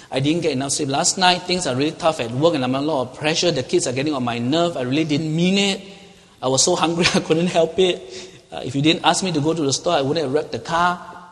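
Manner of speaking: loud, insistent mock excuses; excuse-making. Preacher imitating someone dodging blame after wrecking the car, excuse-making. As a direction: pile up the excuses, loudly defensive. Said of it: "engage in excuse-making or blame shifting".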